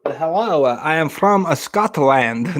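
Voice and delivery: lightly put-on Scottish accent, slowing at the end; bad Scottish impression. Shown as a demonstration. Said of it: "Is that a Scottish?".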